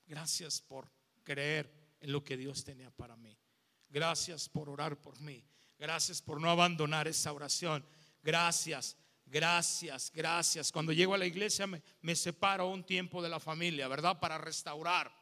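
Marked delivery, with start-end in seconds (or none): 0.1-10.7 heartfelt thanks. Retold or imitated. Thanks the woman who prayed.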